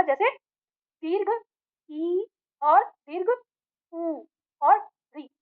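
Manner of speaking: slow, stretched vowels ई and ऊ held long; teacher sounding out long ई, ऊ and री slowly; drawn-out vowel demo. Shown as a demonstration. Teacher demonstrating long vowels to students, slow and stretched. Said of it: "उदाहरण में दिया है हमारा".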